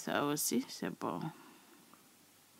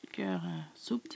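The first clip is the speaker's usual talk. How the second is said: whisper; 2 semitones higher, 4 dB quieter than usual. Real, not acted. Whispered clarification of measure.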